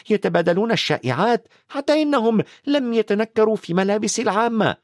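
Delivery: fretful and tense; nervously. Acted. McGonagall frets to Dumbledore about careless wizards, agitated. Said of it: "بعصبية".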